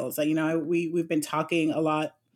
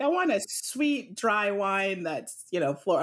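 high-pitched mock guest voice asking for wine; imitating a confused guest; 3 semitones higher than usual. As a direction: lightly mimic a customer who mixes up wine words. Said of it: "I'm doing quotes you can't see".

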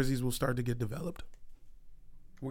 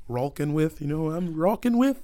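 lightly put-on Canadian accent; 4 dB louder than usual. Shown as a demonstration. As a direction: replay it with a hint of Canadian. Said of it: "What Canadian accent is that?".

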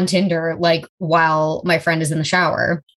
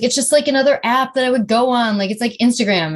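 higher, fast dismissive excuse; mock excuse; 5 semitones higher, faster than usual. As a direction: brush it off quickly like a caught cheater. Voicing cheater's excuse.

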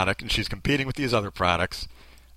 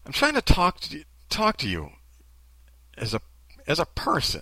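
imitated earnest appeal; halting attempt at heartfelt sincerity; mock sincere. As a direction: try on her sincerity in your own voice. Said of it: "let me try to get it as good as she did".

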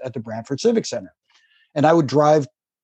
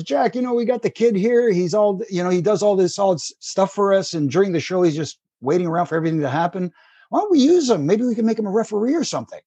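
put-on higher, French-Canadian accent, lightly done; Pat Patterson impression; 5 semitones higher than usual. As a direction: voice a French-Canadian promoter pitching an idea. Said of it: "everybody in the world thinks they can imitate Pat Patterson".

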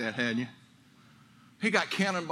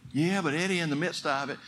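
doubting congregant; faster than usual. Retold or imitated. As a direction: sound like a discouraged listener pushing back. Congregant objecting to preacher.

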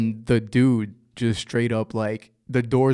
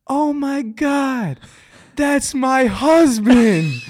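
slow, high, stunned mock horror; mock panicked high gasp; 12 semitones higher, 4 dB louder, much slower than usual. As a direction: drag it out high like she's just been caught. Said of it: "the one from the back seat goes".

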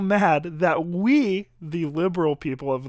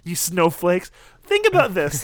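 mock preachy shout; 4 dB louder than usual. Mock preachy conservative rant.

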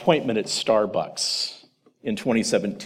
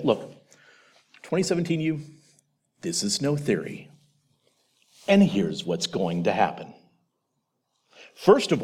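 empathetic. Retold or imitated. Future self gently warning past self, empathetic. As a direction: break hard news kindly. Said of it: "would look very caringly and with some sense of empathy".

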